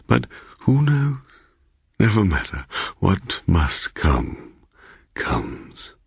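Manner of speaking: lightly voiced host, ending in an ominous hush; a hint of a fatalistic old host trailing off; uneasy host Bloom. Bloom bidding his guest goodnight, lightly voiced ominous hush.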